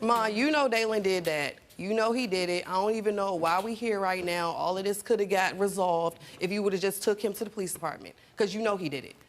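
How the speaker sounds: a daughter confronting her mother, heated and accusing; angry confrontation. Retold or imitated. Confronting mother about her son.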